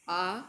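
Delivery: आ stretched slow and long; teacher drawing out आ; drawn-out vowel. Shown as a demonstration. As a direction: pull the आ out like a pluta vowel. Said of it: "तो ये खींच कर बोला जाता है".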